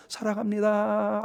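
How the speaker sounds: drawn-out mock tender greeting; soft loving words. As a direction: model a sweet, gentle way of talking. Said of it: "왜 그렇게 부드럽질 않어".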